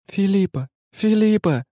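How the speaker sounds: high ringing call of a name; joyful cry. A narrator's reading. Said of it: "воскликнула девушка".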